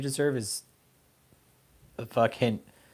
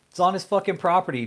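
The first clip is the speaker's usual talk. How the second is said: loud, high, furious yell; angry shout; 7 semitones higher, 6 dB louder than usual. Real, not acted. Ranting at David about his private lake, furious shout. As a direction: blast it out, outraged.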